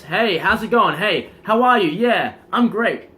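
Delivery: loud, high, full of energy; loud passionate greeting. Shown as a demonstration. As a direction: greet them with big intensity. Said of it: "can you kind of explain the, the point of".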